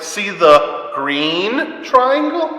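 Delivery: put-on slow, sing-song words for a little boy; dad teaching his little boy colors, slow and sing-song; parent teaching a toddler. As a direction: point things out slowly to your small son. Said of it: "then I'm gonna say things like".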